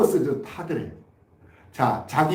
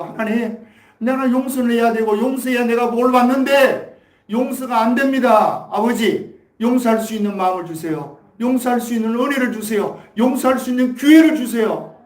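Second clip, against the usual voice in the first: a prayer that rises louder and higher with each plea, 용서할 수 있는 pressed harder each time; pleading prayer building to a cry; 4 semitones higher, 4 dB louder than usual. Acted. Preacher acting out a congregant begging God for forgiveness, pleading and building louder.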